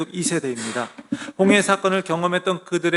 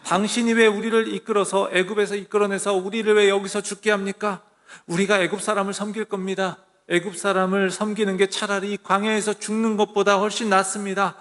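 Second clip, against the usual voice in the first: a touch higher, mock complaining at Moses; grumbling complaint; 4 semitones higher than usual. Israelites grumble at Moses, mildly acted complaint. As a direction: play the grumbling crowd, lightly. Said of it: "모세를 막 원망해요".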